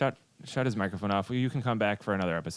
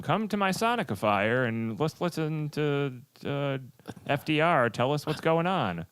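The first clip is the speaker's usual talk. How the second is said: put-on slow, higher old-time radio announcer; old-timey voice; 5 semitones higher, slower than usual. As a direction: ham up a nineteen-forties radio pitch. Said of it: "That was an annoying voice".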